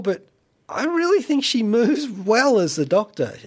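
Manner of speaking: normal talking voice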